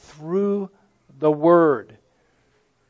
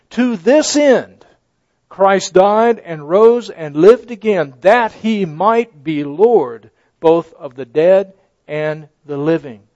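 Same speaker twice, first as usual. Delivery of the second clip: slow, louder proclaimed verse; preacher reading scripture boldly; emphatic scripture reading; 6 dB louder than usual. Real, not acted. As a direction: declaim the verse. Scripture read with force.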